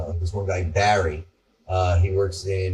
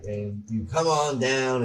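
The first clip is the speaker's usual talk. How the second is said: Southern pitchman; 4 semitones higher than usual. Retold or imitated. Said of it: "he talks like, like this".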